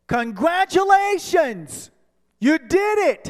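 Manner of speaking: ethereal voice. Retold or imitated. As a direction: speak as a joyful heavenly voice. Ethereal voice speaks.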